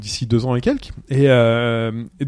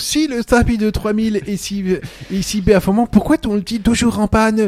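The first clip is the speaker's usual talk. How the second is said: put-on German-accented robot; 6 semitones higher, slower than usual. Imitates C-3PO's German accent.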